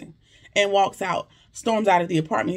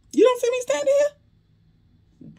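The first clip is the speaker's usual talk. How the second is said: very high, slow, drawn-out squeal of offense; exaggerated high mock retort; slower than usual. Recapper overplays Bayou's retort to Sabrina, very high and slow. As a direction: stretch it way up high and slow, overdoing the outrage. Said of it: "That would've been".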